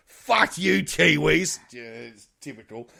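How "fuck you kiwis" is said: mock insult. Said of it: "which I sort of say".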